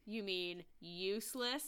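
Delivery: USELESS slowly drawn out; deliberate, lingering weight on "useless"; pointed pun. Real, not acted. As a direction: stretch "useless" out slowly as a correction. Punning on the name Eustace.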